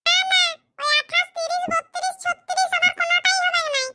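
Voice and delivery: exasperated listing. Acted. Wife complaining about sizes.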